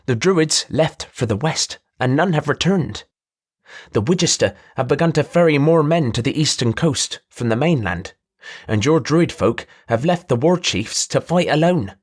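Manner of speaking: a showy trader pinching his voice through the nose; nasally voice. Acted.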